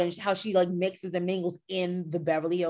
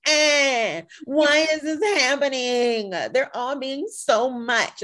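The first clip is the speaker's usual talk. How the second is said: mock exasperated complaint; 6 semitones higher, 3 dB louder, much slower than usual. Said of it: "complain and raise my fist and be like".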